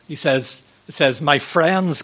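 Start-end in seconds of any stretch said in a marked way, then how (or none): 1.2-2.0 a touch of an elephant crying out to friends; gently called out, reading the story; lightly voiced Horton. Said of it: "cried the elephant".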